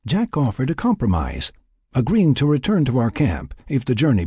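lightly voiced scientist dictating a log; journal-writing scientist. First-person journal read in character.

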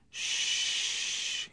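soft, voiceless hushing; soothing hush. A narrator's reading. Husband comforting his sobbing wife, soothingly. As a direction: hush the crying gently.

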